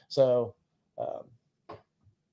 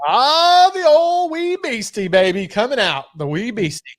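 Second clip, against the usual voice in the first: much higher, louder, hammed-up Scottish accent; mock Scottish; 10 semitones higher, 6 dB louder than usual. To his cohost over the whisky, hammed-up Scottish accent. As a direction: ham up a Scottish brogue for the peated dram.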